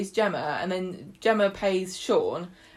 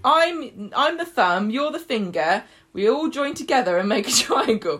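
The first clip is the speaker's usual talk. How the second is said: raised, slightly louder mock sales pitch; imitating recruiter; 3 semitones higher, 4 dB louder than usual. Recruiter explaining his triangle, lightly mimicked. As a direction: lay out a silly scheme with mock importance.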